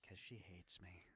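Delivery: whispered joke under the breath; whispered aside. Real, not acted. Muttered aside.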